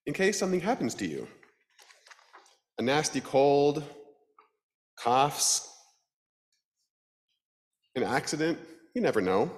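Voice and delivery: high, bright Death voice; grim reaper voice. Acted. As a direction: greet her as a cheerful Death. Death character voice.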